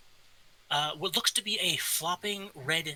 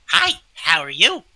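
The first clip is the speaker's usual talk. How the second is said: excited greeting; 10 dB louder than usual. Acted.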